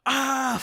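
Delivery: high-pitched imitated scream, held back; mock scream. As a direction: mimic a scream without full force. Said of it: "screaming, like, top of his lungs".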